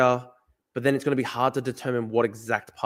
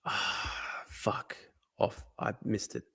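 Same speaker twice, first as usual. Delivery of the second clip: whisper; 5 semitones lower, 12 dB quieter, much slower than usual. Real, not acted. Muttering after a wrong guess.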